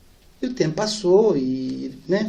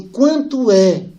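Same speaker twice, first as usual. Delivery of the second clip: pergunta bem lenta; 4 semitones higher, 5 dB louder, much slower than usual. Retold or imitated. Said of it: "e falei assim".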